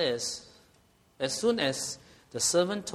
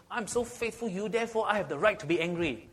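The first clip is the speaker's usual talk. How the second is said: self-righteous protest; 4 semitones higher than usual. Retold or imitated. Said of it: "You know what he's actually saying?".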